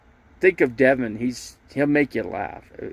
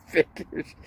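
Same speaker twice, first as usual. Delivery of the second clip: Figures. said again through a laugh, higher; 5 semitones higher, 4 dB quieter than usual. Retold or imitated. Repeat with a laugh.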